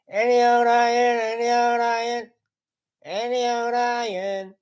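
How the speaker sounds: a rag-and-bone man calling in the street. Pretend. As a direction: sing out the cry like a scrap-metal collector.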